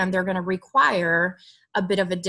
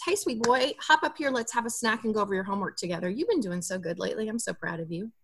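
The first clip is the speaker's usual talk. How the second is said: put-on warm, light invitation to a child; sweet coaxing parent; 3 dB quieter, faster than usual. Shown as a demonstration. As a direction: coax him gently like a loving parent. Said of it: "instead what you could say is".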